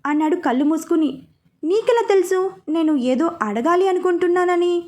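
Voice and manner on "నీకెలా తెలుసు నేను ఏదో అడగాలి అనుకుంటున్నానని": higher, amazed question; surprised. Acted. Vishishta amazed that Veera read her mind, surprised. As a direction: ask it in wonder, pitch lifted. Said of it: "అని అడిగింది ఆశ్చర్యంగా".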